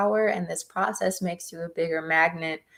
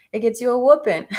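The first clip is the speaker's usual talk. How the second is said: laughing; 3 semitones higher, faster than usual. Real, not acted. Joking about her mom.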